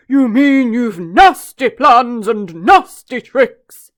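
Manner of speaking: slow hushed retort; loud stage whisper. Acted. Elephant retorting to the crocodile, slow stage whisper. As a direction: hiss it back at him.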